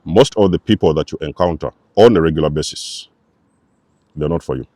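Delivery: measured emphasis, phrase by phrase; slow and deliberate. Real, not acted. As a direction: spell it out carefully, pausing before the final point. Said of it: "let me say this very slowly".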